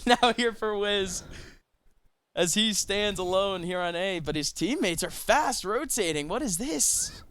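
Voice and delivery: slow, drawn-out caster call; play-by-play commentary. Acted. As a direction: call the round, building tension.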